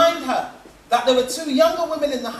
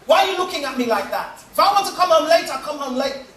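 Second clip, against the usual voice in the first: put-on drunk defensive accusation; 4 semitones higher, 4 dB louder, faster than usual. Drunk husband accuses waiting wife.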